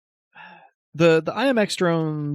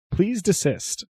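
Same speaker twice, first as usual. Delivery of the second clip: robot voice; 8 semitones higher than usual. Acted. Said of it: "a little synthesized voice".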